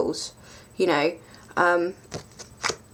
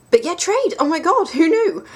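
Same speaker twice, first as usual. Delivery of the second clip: higher, louder burst of glee; excited outburst; 10 semitones higher, 5 dB louder than usual. Real, not acted. Telling viewers she's thrilled about trading, excited. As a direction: throw it out with giddy delight.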